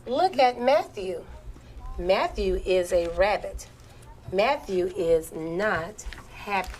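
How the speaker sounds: put-on slow, deliberate reading for children; model read-aloud. Shown as a demonstration. Teacher models a choral reading for pupils, slow read-aloud. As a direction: read aloud slowly, phrase by phrase. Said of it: "I'm going to model first".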